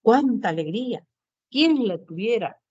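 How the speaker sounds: "Cuánta alegría" and "Quién la tuviera" exclaimed, falling at the end; mild model exclamations with dropping endings; exclamatory tune. Shown as a demonstration. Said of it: "el signo de exclamación".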